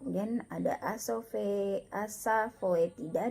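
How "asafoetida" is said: "asafoetida" carefully as asa-feu-ti-da; OE read as EU. Shown as a demonstration. Teacher modelling the reading, "asafoetida" with an eu sound. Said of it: "dibaca asafoetida".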